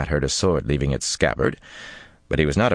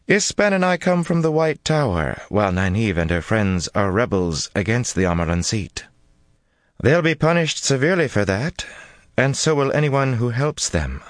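cold threat; 8 semitones higher than usual. Acted.

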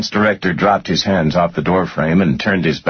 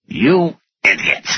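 high, drawn-out furious cry; screamed insult; 10 semitones higher than usual. A narrator's reading. Finance director at his blankly staring boss, screaming. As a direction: scream it slowly at him in outrage. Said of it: "he screamed".

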